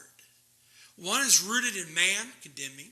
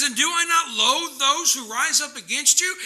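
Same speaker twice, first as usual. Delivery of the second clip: high, loud indignant question; angry psalmist; 6 semitones higher, 6 dB louder than usual. Acted. Psalmist tells God of loathing his enemies, angry. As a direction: fire it upward as righteous outrage. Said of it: "He's angry".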